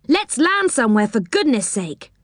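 a mild cry to get off the sea; rocked by waves, urging them to land; anxious cry. Acted. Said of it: "cried Rick".

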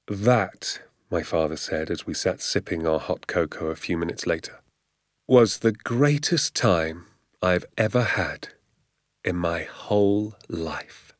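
slow, drawn-out relish; savouring it. Acted. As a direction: linger slowly over each phrase. Father savours the night's adventure.

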